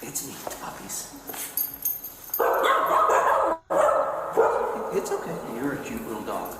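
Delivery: talking to a dog. Real, not acted. Officer soothing a dog.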